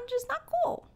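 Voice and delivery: 1 emphatic disbelief. Real, not acted. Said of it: "emphatic rising repeat".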